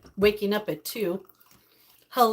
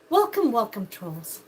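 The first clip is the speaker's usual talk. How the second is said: mock ominous; 3 dB louder than usual. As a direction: drop the voice to mock the trolls. Welcoming the trolls mockingly.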